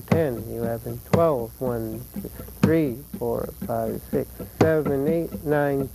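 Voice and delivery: rhythmic count, punching the strong beats; counting the compás with accents. Shown as a demonstration. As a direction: stress twelve, three, six, eight, ten. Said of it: "and then seven and eight are strong".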